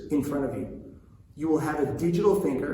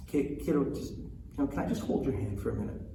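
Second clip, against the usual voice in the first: gentle dad; 6 dB quieter, faster than usual. Retold or imitated. Dad softly asks daughter.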